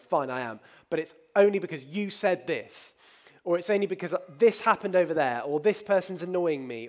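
lightly acted defensive excuse-making; retold huffy self-justification; mock grumpy. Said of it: "I'll be grumpy with Katie".

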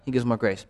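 "gives" carries the weight, said soft and low; quiet, meditative stress on "gives". Shown as a demonstration. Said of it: "each time emphasize a different word".

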